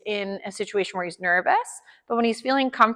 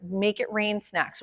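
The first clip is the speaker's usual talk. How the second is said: soft, slow dog voice, lightly voiced; voicing the dog's wish for treats, softer and slower; dog's inner voice; 6 dB quieter, slower than usual. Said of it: "He's like".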